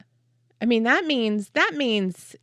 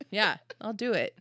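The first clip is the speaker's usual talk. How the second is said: ordinary talk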